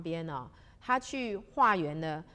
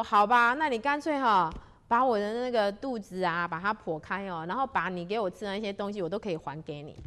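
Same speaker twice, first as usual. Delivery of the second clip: defiant reply; 7 dB louder than usual. Acted. 邱大仙激动回应强盗.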